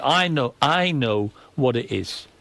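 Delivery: imitating someone calming down, drawn out; slow down as if regaining composure; slow, measured mock calm. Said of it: "eventually she calmed down".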